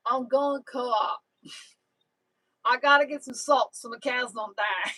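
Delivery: slow, unhurried Tennessee farmer voice; imitating neighbor Paw Paw. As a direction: drag the words out slowly like the old neighbor. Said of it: "and he says".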